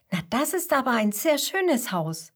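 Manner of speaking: impressed Mama Koala; marvelling mother. Acted. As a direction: admire your child's picture with wonder. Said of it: "staunt die Mama".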